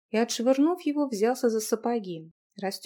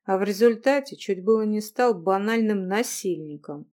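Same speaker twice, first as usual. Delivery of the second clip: guilty chuckle; 3 dB louder than usual. Acted. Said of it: "с виноватой усмешкой".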